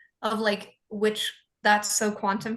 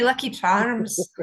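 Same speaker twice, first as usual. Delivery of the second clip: put-on Irish accent; 4 dB louder, slower than usual. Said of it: "Oh, spit at me".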